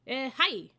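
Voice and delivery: high, loud battle shout; ninja cry. Acted. The tall ninja spotting the kids, loud shout. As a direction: cry out to alert. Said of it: "the ninja cried".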